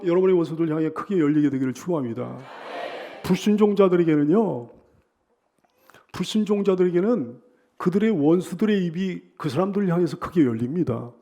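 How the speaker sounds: ordinary delivery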